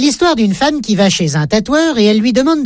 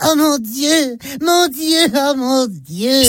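high, drawn-out mock wail of dismay; hammed-up oh my God from the scales; mock cry; 4 semitones higher, 3 dB quieter, much slower than usual. Mom on the scale, wailing oh my God. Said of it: "elle crie".

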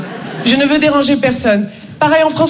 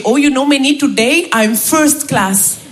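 blissful Indian colleague, slowing right down; Raj; slower than usual. Retold or imitated. Indian colleague asked daily how he is, slow and blissful. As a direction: savour the last words with serene self-satisfaction. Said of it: "Tous les jours, il me dit".

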